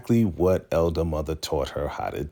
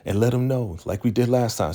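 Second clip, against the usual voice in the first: insistent; 5 semitones higher, faster than usual. Retold or imitated. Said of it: "very insistent".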